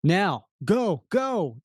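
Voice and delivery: panicked German cry; frightened "Nine" in German accent; scared German villain. Acted.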